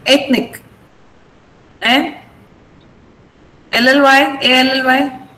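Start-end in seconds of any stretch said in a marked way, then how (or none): 0.1-0.6 ethnic with ETH stressed; stress on first syllable. Shown as a demonstration. Teacher repeats ethnic, stressing the opening vowel. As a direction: put the weight on the start of ethnic. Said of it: "The stress is on A".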